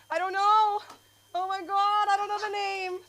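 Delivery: high, giggly I don't know; giggly fluster. Real, not acted. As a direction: laugh it off, flustered. Flustered laughing confession.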